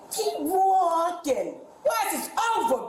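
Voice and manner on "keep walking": slow, taunting echo of the order; mocking drawl. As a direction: drag it out mockingly.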